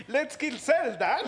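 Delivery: high, loud mock-eager kid voice; Gohan English dub impression. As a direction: pitch it way up like a cheery cartoon boy. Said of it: "Gohan habla así como de".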